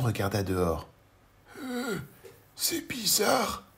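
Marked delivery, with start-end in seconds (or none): 1.6-3.6 higher, slow whispered puzzlement; murmur. Acted. Mr Robinson at the door, whispering to himself. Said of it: "murmura-t-il".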